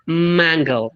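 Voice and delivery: "mango" slow, held nasal m; "mango" with a long nasal m; nasal m stressed. Shown as a demonstration. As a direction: hum the m in "mango". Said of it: "it's a nasal".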